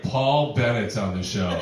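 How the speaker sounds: slow, self-important name drop. Retold or imitated. Ticket seller in Times Square boasting, slow and proud. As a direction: say your own name like a star's. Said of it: "I'd be like".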